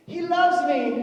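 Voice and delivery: high, loud, giddy squeal; delighted flower-picking girl; gushing girl. Retold or imitated. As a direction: squeal it like a love-struck girl. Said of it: "and they go".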